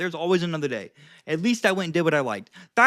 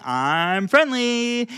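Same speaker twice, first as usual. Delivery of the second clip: higher, very slow and friendly; friendly signal; 5 semitones higher, much slower than usual. Shown as a demonstration. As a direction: stretch it out, friendly. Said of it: "you're signaling".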